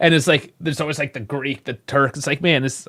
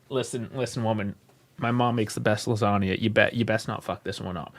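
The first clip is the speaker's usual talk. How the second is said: quieter, retold warning to a wife; mock warning; 2 semitones lower, 6 dB quieter than usual. Acted low warning to wife.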